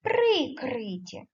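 "прикриті" said slowly with a clear при-; slow clear answer. Shown as a demonstration. Teacher gives the right answer slowly to pupils. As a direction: spell out "прикриті" slowly for the class. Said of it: "Так".

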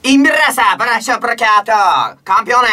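fake Italian. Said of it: "それっぽいイタリア語で".

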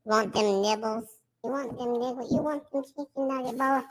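filtered voice on stream. Acted. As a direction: keep the voice filter on. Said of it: "take the voice filter off".

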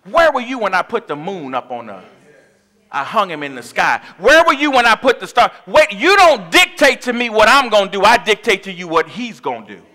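loud, commanding rebuke; booming God. Retold or imitated. A preacher voicing God rebuking Job, loud and commanding. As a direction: thunder it down as the Almighty. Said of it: "God said".

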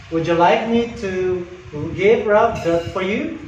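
"Would you like me to give Rob that for you?" lifting at "for you"; rising question inflection. Shown as a demonstration. Agent offering to help a caller, rising on "for you". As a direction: let the voice rise on the final "you". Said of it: "your voice raises at the end".

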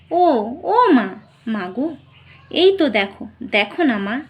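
calling out to mother. Acted. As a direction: call out desperately to a mother who cannot hear.

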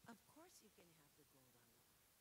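lightly voiced mistress handing over her gold; yielding mistress. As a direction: give it up with a shrug in the voice. Egyptian mistress answering.

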